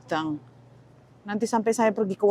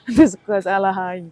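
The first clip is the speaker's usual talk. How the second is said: louder, laughing exclamation; laughing at herself; 3 semitones lower, 6 dB louder than usual. Real, not acted. To viewers, laughing at mistaking eggplant for squash. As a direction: laugh off the mix-up.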